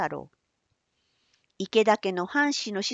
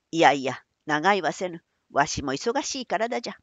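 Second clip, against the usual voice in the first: put-on old man voice; 4 semitones lower than usual. Old merchant Manbei answers.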